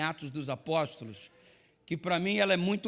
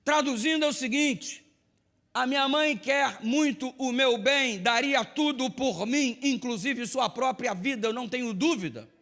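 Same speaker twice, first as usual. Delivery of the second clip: higher, louder preaching voice, slowing at the end; 6 semitones higher, 4 dB louder than usual. Acted. Preacher drives home his point to the congregation, higher and louder. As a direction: build it up for the congregation.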